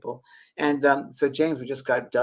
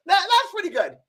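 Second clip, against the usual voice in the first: laughing mock Oprah; 5 dB louder than usual. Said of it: "She goes".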